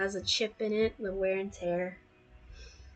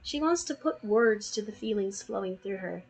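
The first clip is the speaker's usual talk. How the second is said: story narration. Acted. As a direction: read it like a romance novel. Reads fanfic aloud.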